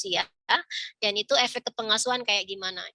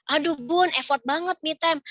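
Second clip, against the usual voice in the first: higher-pitched imitated moan; mock complaint; 4 semitones higher than usual. Mother protesting that me time is effort, mock complaining. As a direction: play an overwhelmed mother objecting.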